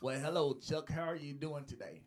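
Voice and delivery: lightly put-on white man greeting; a hint of polite white guy. Shown as a demonstration. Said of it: "Is that white?".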